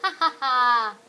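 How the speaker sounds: hyena laugh. Shown as a demonstration. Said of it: "What's the hyena laugh?".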